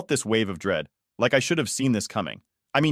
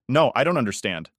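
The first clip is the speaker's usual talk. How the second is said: rising anger; 3 semitones higher, 3 dB louder than usual. Acted. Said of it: "my voice getting louder".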